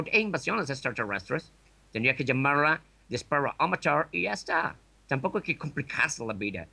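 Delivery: put-on light New York accent in Spanish; a hint of a New Yorker. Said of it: "Desde Nueva York, Raymond".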